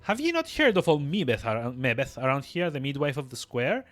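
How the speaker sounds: put-on crone in an old-fashioned dialect; sly old midwife. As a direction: tease them slyly as an old crone. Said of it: "With a sly old cackle".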